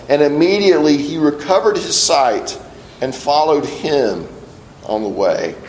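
measured reading of scripture. Acted. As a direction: read the passage with reverence. Reads scripture passage aloud.

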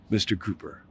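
soft hushed Mister Cooper; gentle whisper. Acted. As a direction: say your name softly to calm him. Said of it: "in a gentle voice that only I could hear".

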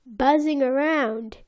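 put-on French-accented documentary narrator, slowing at the end; mock French accent. Opening the episode as the Cousteau-style narrator, mock French accent. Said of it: "With his French accent".

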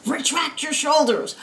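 small, high nagging conscience voice; Jiminy Cricket. Retold or imitated. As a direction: chide like a little cricket conscience. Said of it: "taken on the Jiminy Cricket voice of conscience".

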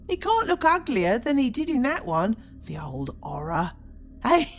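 put-on coarse, cackling old charwoman; chatty grumbling charwoman. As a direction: grumble and gloat over stolen goods. Charwoman haggling with pawnbroker.

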